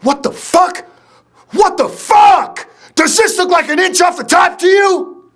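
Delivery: high furious mock scream, dragged out. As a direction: scream at the barber in outrage. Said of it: "he starts screaming".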